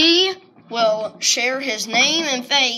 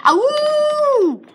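wolf voice. Pretend. Howls at end of video.

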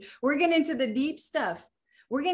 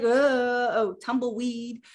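half-hearted mock whine; limp, drifting mock complaint; slower than usual. Shown as a demonstration. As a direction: drift through it like tumbleweed, limp and unfocused. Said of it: "In a very different way".

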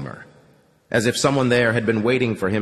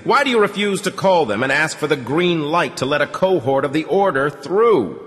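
stern accusation; 7 semitones higher, 3 dB louder than usual. A narrator's reading. Hunter confronting the Commandant with stern, rising pressure. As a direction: demand answers, building force.

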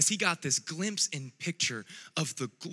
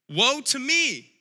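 slow, higher anguished cry; cried out; 7 semitones higher, 4 dB louder, slower than usual. Acted. Preacher voicing Isaiah's dismay, a slow anguished cry. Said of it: "I cried".

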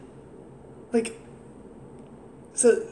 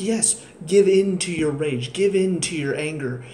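mock Sith Lord; 5 dB louder than usual. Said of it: "She's treating him like".

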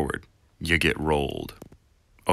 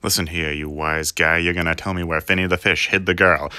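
loud, building gangster threat; tough gangster; 7 dB louder than usual. Pretend. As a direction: menace like an old mobster. Gangster interrogation parody.

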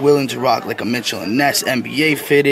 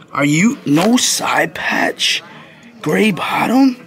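incredulous; 6 semitones higher, much slower than usual. Real, not acted. Shocked at hat price.

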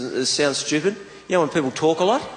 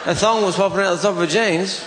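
higher-pitched, disbelieving question; incredulous echo; 4 semitones higher than usual. Retold or imitated. Comedian baffled by a bloke's talk of thongs, incredulous. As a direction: repeat it back as if baffled.

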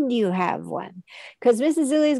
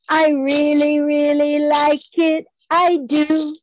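sung, dropping low on the final "do"; lower on do; 2 semitones higher than usual. Shown as a demonstration. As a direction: sink the voice down for "do" at the end. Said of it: "So I lower my voice that time for the word do at the end".

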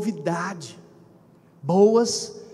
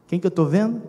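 louder call to the crowd; 5 dB louder than usual. Shown as a demonstration. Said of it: "repeated question, louder".

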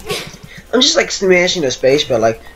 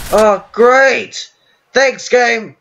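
sarcastic; 4 semitones higher, much slower than usual. Real, not acted. Sarcastic thanks to game.

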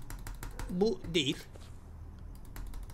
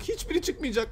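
higher, sing-song despair; higher whiny repeat; 5 semitones higher than usual. Real, not acted. Gamer moaning at the keys, higher whiny repeat. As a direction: say it again higher, half-whining.

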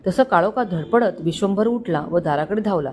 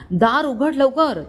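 higher, slow urgent shout; 5 semitones higher, slower than usual. Acted. Sobered man shouting at driver, slow urgent call. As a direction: call it out slowly, pitch up. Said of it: "तिथूनच ओरडला".

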